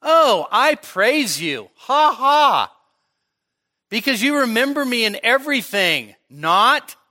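loud, high mock praise with a fake ha ha; sarcastic. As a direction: gush mockingly, then undercut it with a punched "not". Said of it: "I don't think he's being sarcastic. I don't think he's going".

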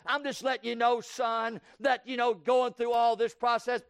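a lightly voiced dad explaining the whipping; earnest mock father lecture; imitating a lecturing father. Father lecturing his son before a whipping, lightly voiced. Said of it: "now I didn't hear none of that".

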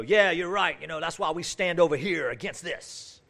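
loud, high, zealous agreement; fired-up supporter. Acted. People come back to the preacher agreeing, mock fervent agreement. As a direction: imitate someone eagerly taking up the fight.

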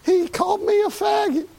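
high, outraged cry; shouted outrage. Retold or imitated. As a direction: burst out in indignation. Retelling an insult, shouted.

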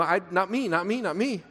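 mildly stammered, repeated protest; Porky Pig stutter. Retold or imitated. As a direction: stumble into a mock panicky refusal. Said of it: "He just starts stuttering all of a sudden".

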